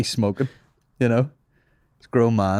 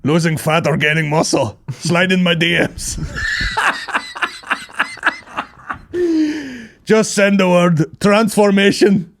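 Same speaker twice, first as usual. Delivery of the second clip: lightly voiced foreign fitness coach; Taliban personal trainer; 4 semitones higher than usual. Taliban trainer selling online coaching, in a mock accent. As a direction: pitch a programme in a put-on accent. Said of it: "Roll on the Taliban P Ts".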